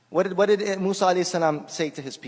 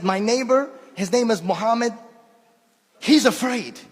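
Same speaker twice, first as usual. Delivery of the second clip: put-on old man's voice; 5 semitones higher than usual. Speaker repeats the old man's words, lightly imitating him. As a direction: redo it as the old man himself said it. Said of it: "I swear, this is exactly what he said".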